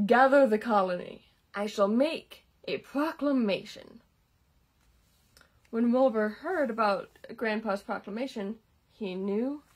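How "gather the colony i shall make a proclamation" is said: loud regal command; heroic, regal voice. Acted. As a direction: announce like a noble king. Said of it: "in his heroic, regal voice".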